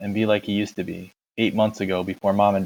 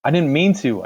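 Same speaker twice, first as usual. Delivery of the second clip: higher, louder desperate plea; pleading; 6 semitones higher, 5 dB louder than usual. Acted. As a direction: beg him to understand. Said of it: "I pleaded with Derry".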